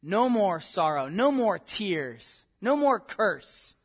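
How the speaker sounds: slow, weighty repetition; slow solemn list. Shown as a demonstration. Preacher lists Revelation's promises, slow and weighty.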